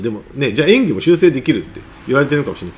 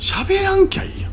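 blunt retort. Shown as a demonstration. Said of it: "いう人が人前で喋るんですよ".

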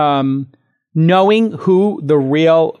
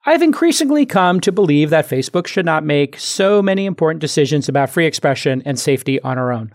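intellectual voice. Retold or imitated. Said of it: "saying it in an intellectual voice".

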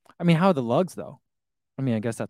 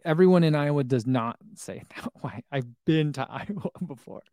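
amused protest. Retold or imitated. Retold squabble with wife, amused.

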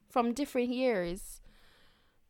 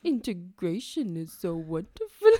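Winnie the Pooh. Retold or imitated. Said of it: "What accent was that? Winnie the Pooh?".

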